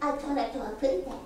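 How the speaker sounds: a quick hint of a cartoon bird. Quoting a childhood cartoon, light cartoon bird voice. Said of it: "cartoons of my childhood".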